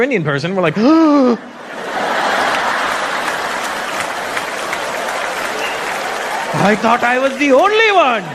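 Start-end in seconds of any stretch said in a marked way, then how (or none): 0.8-6.6 mock shocked gasp. Indian spotting another Indian, exaggerated gasp. 6.6-8.2 high-pitched, hammed-up amazement; mock astonishment. Indian spotting another Indian, mock astonished.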